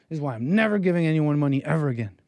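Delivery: quick, annoyed rant with a stress on never; fast indignant vow from a fed-up clerk; mock mad clerk. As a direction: clerk huffing about never giving money. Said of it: "he's got this face on. He's, like, mad".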